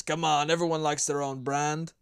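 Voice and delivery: lightly voiced movie Scotsman; a hint of put-on Scottish accent; Scottish accent impression. Podcaster quotes a movie line, lightly faked Scottish accent. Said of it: "an impression of".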